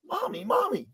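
high-pitched imitation of an eager child; acted childish excitement; excited little boy. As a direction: pipe up like a little boy pestering Mommy. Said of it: "in the excited way little boys do".

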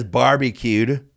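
stretched slowly; slow drawn-out. Retold or imitated. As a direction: drag the word barbecued out. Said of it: "he says".

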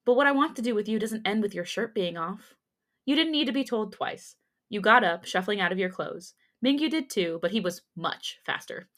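fan fiction read aloud; story narration. A narrator's reading. Reader telling listeners a romance story, in narration voice.

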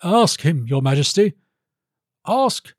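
high-pitched courtier's challenge; high, disdainful prompting; scornful baron. Acted. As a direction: goad the king in a high baron's voice.

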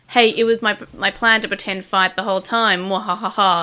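mad scientist. Retold or imitated. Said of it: "that whole sort of like".

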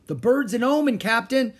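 high, loud superstitious cry; alarmed shout. A narrator's reading. Crewman to captain about the parrot, high shouting. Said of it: "shouted Stinky".

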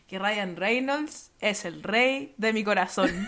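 slow, soft words through a laugh; laughing softly. Real, not acted. To her cohost, confessing her crush through a laugh. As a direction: giggle out the confession.

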